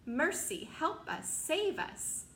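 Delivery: begging for rescue, building to high; crying out in terror. Acted. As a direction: ladybug pleading as the cloudman climbs down. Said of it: "cried the ladybug".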